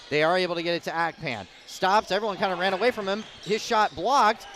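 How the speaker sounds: fast, rising call of the scramble; excited play-by-play. Real, not acted. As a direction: rattle it off quickly, building. Scramble under the basket.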